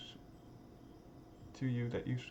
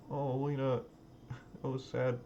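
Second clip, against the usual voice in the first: laughing. Real, not acted. Player laughing at scene.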